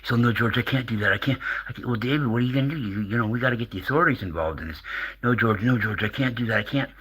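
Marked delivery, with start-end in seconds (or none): 0.2-1.9 higher-pitched mock hysterical caller; David Wilcock. Caller refusing the radio host's advice, lightly mocked hysteria. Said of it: "he's not hysterical anymore". 1.9-4.8 higher, quickening mock host; George Norrie. Radio host pressing a scared caller, lightly mocked high voice. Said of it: "George is like". 5.2-6.9 higher mock pleading; David Wilcock. Caller turning down the host's plea, lightly mocked hysteria. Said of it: "he's not hysterical anymore".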